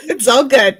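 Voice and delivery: high, loud, laughing reassurance. Real, not acted. Co-host reassuring host about a technical issue, laughing. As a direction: say it through real laughter.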